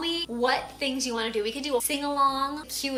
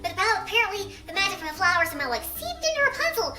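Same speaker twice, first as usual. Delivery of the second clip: helium voice. Real, not acted. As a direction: talk after a big breath of helium. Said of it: "using helium voice".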